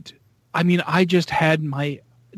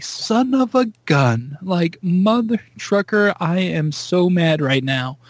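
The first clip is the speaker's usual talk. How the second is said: slow, higher pitched mock fury; mock seething; 3 semitones higher, slower than usual. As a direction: drag out the grumbling like a sore loser. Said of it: "He was like".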